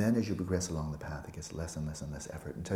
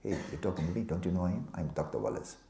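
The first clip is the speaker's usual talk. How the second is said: mock uptight; 4 dB louder than usual. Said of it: "It's called uptight".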